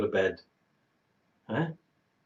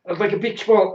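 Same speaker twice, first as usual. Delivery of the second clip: 1 comic exaggeration; 9 semitones higher, 7 dB louder than usual. Real, not acted. Exaggerating his bloated state.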